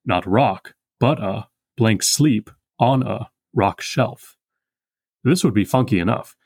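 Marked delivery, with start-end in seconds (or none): 0.1-4.4 each stress hammered out very slowly; scanned reading. Shown as a demonstration. Teacher scanning the line for students, stresses hammered out slowly. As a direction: beat out iambs and trochees syllable by syllable. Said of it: "alternates between iambs and trochees".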